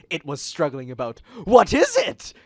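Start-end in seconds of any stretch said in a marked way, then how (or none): 1.4-2.3 much higher, loud shriek; alarmed cry. A narrator's reading. Rachel shrieks in disgust at the hedgehog. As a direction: Rachel shrieks at the creature again. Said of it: "Rachel said again".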